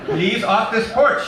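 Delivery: put-on high, loud, slow accented old-lady yell; accented shout. Poltoy shouting at Eddie through the screen, slow accented yell. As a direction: draw out the order to get off. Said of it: "she shouted".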